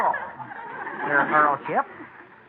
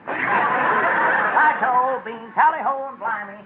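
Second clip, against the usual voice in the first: fake British; 4 semitones higher, much slower than usual. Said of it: "your man has a rather peculiar accent".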